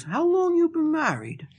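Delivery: very high, slow incredulous question; mock astonishment. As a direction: imitate an amazed man, voice shooting up. Retelling man's stunned questioning.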